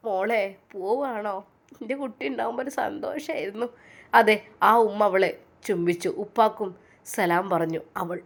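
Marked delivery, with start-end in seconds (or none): 0.1-3.7 slow, softer tearful farewell; a mother-in-law holding back tears, slow. Acted. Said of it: "എന്നാൽ ഫസീല കരഞ്ഞു". (കരച്ചിലോടെ പതുക്കെ)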